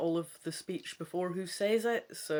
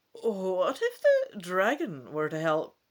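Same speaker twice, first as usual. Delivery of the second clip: scherp gevraagd; 7 dB louder, slower than usual. Acted. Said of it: "she asks pointedly".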